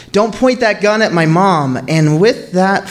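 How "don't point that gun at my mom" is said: high, pleading retold cry; desperate cry. Brother begs the intruders to spare mom, desperate higher cry. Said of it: "cry out down the hallway in desperation".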